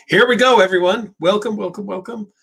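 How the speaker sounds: lively Irish welcome; Irish accent. Pretend. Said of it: "We'll do it all in an Irish accent".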